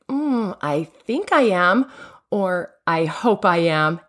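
slow, doubtful mock answer; hedging, not quite believing it; unsure, hesitant. A speaker doubting her own goodness, slowly unsure. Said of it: "does it sound more like".

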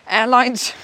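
breaking into a giggle on the word Airlines; starts reading Airlines, then cracks up; stifled giggles. Real, not acted. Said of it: "I'm trying not to laugh".

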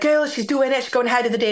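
put-on calling out happily to the girls down the hall; excited call to the girls. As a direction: sister calling the bridesmaids with the news. Sister calls out to the girls.

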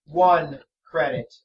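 slow, flat monotone; deadpan stubborn haggling. Acted. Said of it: "same flat monotone voice over and over".

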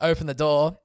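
calm retelling. Shown as a demonstration. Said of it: "I'm saying this very calmly".

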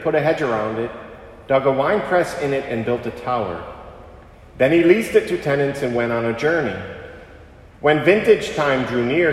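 measured liturgical proclamation; Gospel reading. Acted. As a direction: proclaim it like scripture at Mass.

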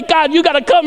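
high, insistent plea; urgent mock prayer. Preacher imitating a needless prayer to God, urgent mock plea. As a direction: imitate someone begging heaven urgently.

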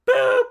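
high, loud mock whistle blast; whistle imitation. Coach warns quarterbacks with a loud whistle sound. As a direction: blow a sharp imitated whistle. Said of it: "hear the whistle blow".

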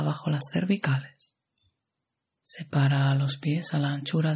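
calm, even meditation guide with long pauses; measured yoga nidra instruction, phrase by phrase; guided meditation. Acted.

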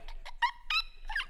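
very high, squeaky choking noise; mock allergic wheeze. Friend near a little succulent, mock choking. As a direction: imitate a throat closing up.

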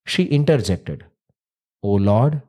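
measured storyteller voice; story narration. A narrator's reading. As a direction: tell the old legend gravely. Narrates the myth.

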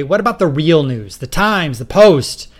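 disgust. Acted. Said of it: "spitting out the names with obvious disgust".

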